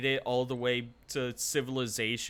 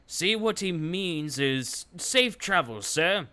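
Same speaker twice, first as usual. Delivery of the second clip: eager soldier voice; 6 semitones higher, 6 dB louder than usual. Acted. Soldier interjects to commander.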